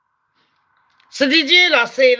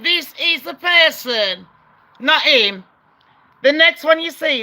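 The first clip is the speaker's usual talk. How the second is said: shouting. Real, not acted. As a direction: shout it at the viewers. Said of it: "I'm sorry I'm shouting".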